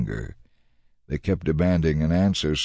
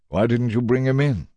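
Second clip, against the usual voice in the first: a mild, pitched-up demanding question; 5 semitones higher than usual. Acted. Priests to the temple guards, a mild demanding question. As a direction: press them for an answer. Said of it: "they demanded".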